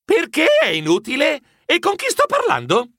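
high, agitated questions; alarmed questioning. Acted. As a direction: demand answers from a mystery caller. Hero challenges a mysterious caller.

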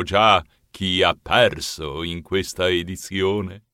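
lightly theatrical announcer; butler as master of ceremonies. Acted. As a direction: announce the final contest with ceremony.

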